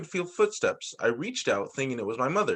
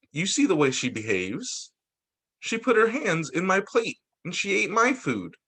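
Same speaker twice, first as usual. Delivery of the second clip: complaining relatives; 4 semitones higher than usual. Acted. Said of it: "My relatives thought I was a monster".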